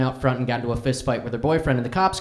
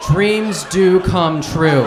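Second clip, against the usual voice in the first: dry ironic; 6 dB louder, much slower than usual. Real, not acted. Ironic punchline to the story.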